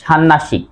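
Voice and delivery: ষান্নাসিক said shan-nashik, m dropped; common pronunciation. Shown as a demonstration. Teacher shows what many say, n doubled. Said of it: "অনেকেই উচ্চারণ করেন".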